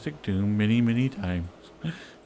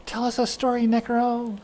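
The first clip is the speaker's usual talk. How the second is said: eager cheer; 10 semitones higher than usual. Pretend. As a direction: greet him like a hero. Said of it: "Gonna be like".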